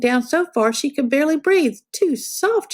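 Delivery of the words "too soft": put-on girl's line. A narrator's reading. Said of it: "she said".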